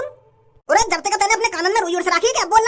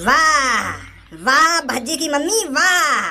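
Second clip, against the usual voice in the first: sarcastic wah; 5 semitones lower, much slower than usual. Acted. Husband mocks wife's retort.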